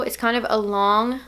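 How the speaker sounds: slipping into a British accent; a hint of British on "long"; accidental British accent. Real, not acted. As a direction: briefly drift into a British accent. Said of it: "like, a British accent?".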